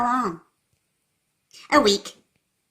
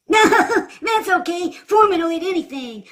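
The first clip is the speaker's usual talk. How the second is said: laughing; 7 semitones higher than usual. Acted. Laughs while reassuring.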